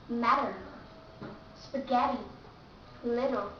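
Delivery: matter, spaghetti, little with a tapped D sound; double T as D. Shown as a demonstration. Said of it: "you have to pronounce D".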